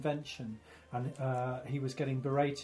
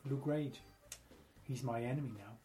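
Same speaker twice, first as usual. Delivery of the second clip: put-on West Country accent; 6 dB quieter than usual. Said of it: "why did he say it in a West Country accent".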